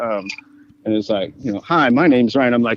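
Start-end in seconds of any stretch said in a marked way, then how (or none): 1.6-2.5 put-on robotic voice, slower pace. Retelling a phone caller who sounded like a robot, imitating Ryan's robot voice. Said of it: "at sounding like a robot".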